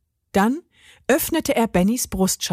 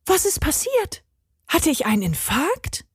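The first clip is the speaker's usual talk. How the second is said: lightly voiced, higher confused robot; a touch higher, dazed and confused; Benny's voice; 8 semitones higher than usual. A narrator's reading. Benny just woke up, dazed and confused.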